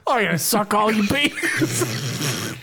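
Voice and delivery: Mister Everest voice. Acted. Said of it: "so much fun to do that voice".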